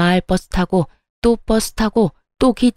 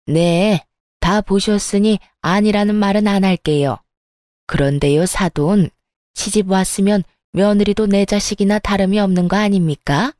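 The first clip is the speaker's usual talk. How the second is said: sarcastic sneer. Acted. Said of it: "얄밉게도 비아냥거리며".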